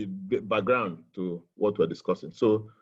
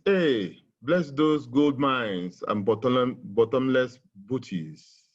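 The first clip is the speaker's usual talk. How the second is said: poem reading. Shown as a demonstration. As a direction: read with biting irony. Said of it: "which I would like to read".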